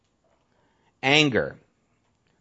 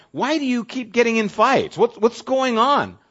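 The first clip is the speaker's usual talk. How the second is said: questioning friend; 11 semitones higher, 4 dB louder than usual. Retold or imitated. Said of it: "I remember talking with some people".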